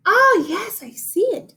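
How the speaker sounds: a sheep's happy gasp of seeing it; Daisy the sheep. A narrator's reading. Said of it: "said Daisy".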